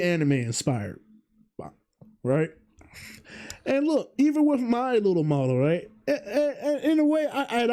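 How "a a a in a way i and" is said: laughing. Real, not acted. Laughing, stumbling over words.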